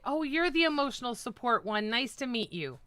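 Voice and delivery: lightly sugary, teasing greeting; fake-polite hello to the girlfriend; mock sweet greeting. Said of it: "I'm gonna say".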